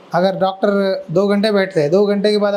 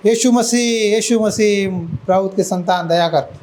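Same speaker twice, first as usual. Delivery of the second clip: mild mock cry for mercy, repeated; imitated calling out. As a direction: call out lightly like a pleading man. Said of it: "ये आदमी चिल्ला रहा था बार बार". (पुकारने की हल्की नकल)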